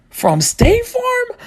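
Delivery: high, slow, baffled; drawn-out dumb question; mock confused. Dante baffled by neighbors' dog name, high and slow.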